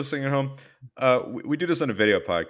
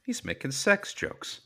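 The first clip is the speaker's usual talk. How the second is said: high, slow tattling complaint; put-on high-pitched indignation; mock scandalised; 8 semitones higher, 4 dB quieter, slower than usual. Host tattles on his co-host's sex jokes, mock scandalised.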